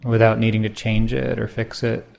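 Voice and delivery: unhurried meditation guide, long pauses between phrases; guided meditation. Acted. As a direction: gently pose each question, leaving silence after it.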